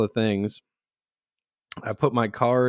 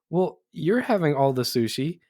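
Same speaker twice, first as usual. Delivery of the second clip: higher voice mimicking a protesting child; little girl; 6 semitones higher than usual. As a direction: lightly imitate a small girl objecting. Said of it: "And the little girl goes".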